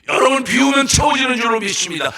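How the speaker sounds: 높고 크게 몰아치는 설교 외침; 점점 더 힘껏 외치며 축복을 선포. Real, not acted. (목청을 높여 부르짖는 축원)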